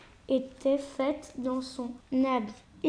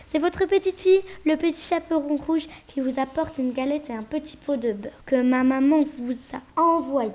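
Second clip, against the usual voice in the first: put-on little girl's voice. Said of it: "grosse voix du loup eut peur".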